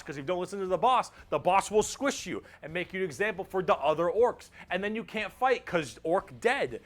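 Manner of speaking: put-on lightly stereotyped British orc accent; big dumb British accent. Orc explaining that orcs live to fight, in a dumb British accent. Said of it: "big, dumb, stereotype British accent".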